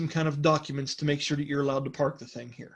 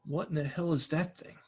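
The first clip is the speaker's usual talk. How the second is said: under his breath; 6 dB quieter than usual. Acted. Dahan eyes the newcomers and mutters under his breath. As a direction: say it under your breath, eyeing them. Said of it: "says slightly underneath his breath".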